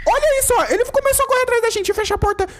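being chased. Real, not acted. Monster chasing them in game.

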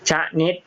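ชะนิด said slowly with a short "cha" and a clear "nit"; ชะนิด as two clean syllables, cha-nit, for the class to repeat; clear model reading. Shown as a demonstration. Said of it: "อ่านว่า ชะนิด".

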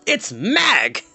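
high-pitched, panicked exclamation; breathless alarm. A narrator's reading. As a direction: gasp out terrible news. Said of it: "Breathless and gasping".

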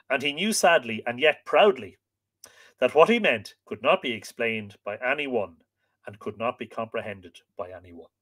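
measured, expressive storytelling voice; story narration. A narrator's reading. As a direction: read it like an old legend, stressing key words. Reads the tale aloud.

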